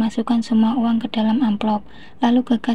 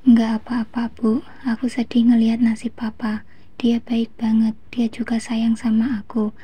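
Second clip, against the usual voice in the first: sobbing. Acted. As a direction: speak through held-back tears.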